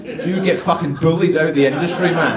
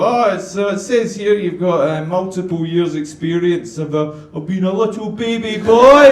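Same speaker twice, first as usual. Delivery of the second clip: interviewer turning mocking. Interviewer reads CV, ends in taunt.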